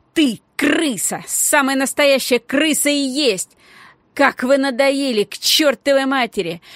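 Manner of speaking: high loud angry rant; furious tirade. A narrator's reading. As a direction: pour it all out at him. Girl rages at the boy.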